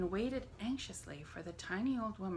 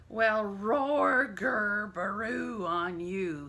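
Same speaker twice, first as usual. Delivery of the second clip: loud mocking yell; mock their noises at full voice; 2 semitones higher, 6 dB louder, much slower than usual. A narrator's reading. Giant mocking the animals, loud yell. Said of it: "he yelled".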